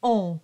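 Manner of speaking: on as one nasal vowel, no n; nasal closed O. Shown as a demonstration. Teacher isolating the vowel for singers, on nasal and closed. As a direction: round and close on through the nose. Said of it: "very closed O".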